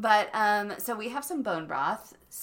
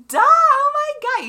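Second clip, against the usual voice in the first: high, loud mock duh; mock exasperated friend; 14 dB louder than usual. Friend's reply quoted.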